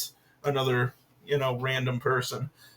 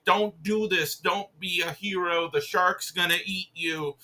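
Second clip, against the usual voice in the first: higher-pitched imitation of pleading; mock tearful pleading; 4 semitones higher than usual. Girlfriends begging heroes over the phone, mock tearful pleading. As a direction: plead in a mildly whiny mock cry. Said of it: "crying and screaming".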